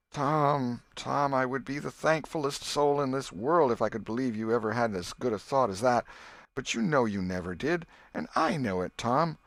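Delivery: a hurt aunt who can't believe him; sorrowful aunt. Acted. Aunt Polly sadly doubting Tom.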